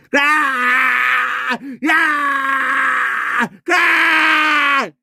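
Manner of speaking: long, high screamed cries; demonstrated scream. Shown as a demonstration. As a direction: scream it out like a raw animal cry. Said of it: "소리 지르는 의성이니까". (높고 길게 내지르는 비명)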